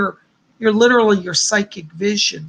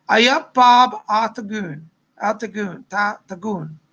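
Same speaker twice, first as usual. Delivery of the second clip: attempted Northern English accent. Host puzzling over a viewer's greeting, attempted Northern English accent. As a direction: try out the Northern English phrase, repeating the last word. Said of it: "Northern English".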